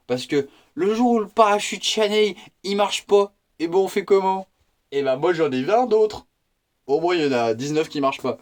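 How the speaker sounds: high, loud, triumphant punchline; hammed-up victory over the broken parachute; excited punchline. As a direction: build to a loud, high mock boast. Mock-heroic punchline about parachutes.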